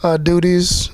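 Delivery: mildly tongue-in-cheek, slowed praise; facetious tone. Real, not acted. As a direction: say it slowly with mock-seriousness. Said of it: "I say that with a facetious tone".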